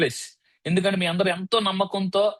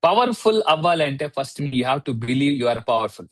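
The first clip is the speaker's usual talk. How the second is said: slow dictation; 2 semitones lower, much slower than usual. Shown as a demonstration. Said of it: "రాసుకోండి".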